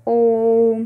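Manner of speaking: ओम held level and long; pluta vowel demo. Shown as a demonstration. Teacher models the three-beat ओम. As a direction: stretch the ओ in ओम. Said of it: "प्लुप्त में".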